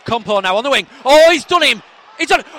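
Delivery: high, loud play-by-play; excited commentary. Pretend. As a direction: shout the attack as it builds. Excited live commentary on the wing.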